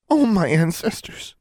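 high, horrified gasped-out oath; shocked, high-pitched outburst; shocked exclamation. A narrator's reading. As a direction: exclaim in alarm at the sight. Friend finds her badly hurt.

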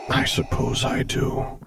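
as if from far away, slowly. A narrator's reading. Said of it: "voice sounding like it came from far away".

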